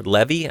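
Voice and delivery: "Levy" with a short e, as in "bevy"; alternative pronunciation. Shown as a demonstration. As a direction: offer "Levy" as LEV-ee, first vowel short. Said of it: "say it Levy or Levy".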